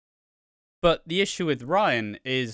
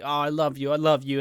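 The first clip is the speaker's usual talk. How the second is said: higher, lightly hammed-up declaration of love; mock emotional; 4 semitones higher, 4 dB louder, faster than usual. Imagining a big emotional soap moment, mock emotional. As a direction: gush it as a mock soap confession. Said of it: "like, emotional".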